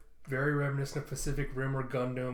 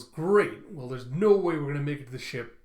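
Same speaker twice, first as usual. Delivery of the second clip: exasperated shout; 7 dB louder than usual. Retold or imitated. Panicked escape from worm.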